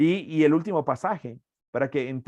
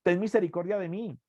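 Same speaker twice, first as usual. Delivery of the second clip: brief raised-voice call, then easing off; mock crowd cry, pitched up; shouting to Jesus; 5 semitones higher than usual. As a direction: imitate people calling out for mercy. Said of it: "La gente le gritaba a Jesús".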